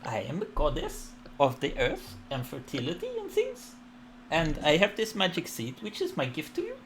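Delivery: bestow the gift graciously; warm serene goddess voice. Acted. Goddess speech.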